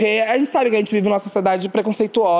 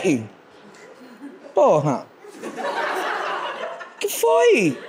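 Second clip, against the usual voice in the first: revide bravo; 6 semitones higher, much slower than usual. Retold or imitated. Discussão na rua.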